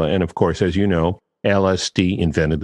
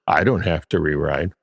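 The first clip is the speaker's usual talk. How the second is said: swagger; 4 semitones lower than usual. Retold or imitated. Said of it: "that swagger".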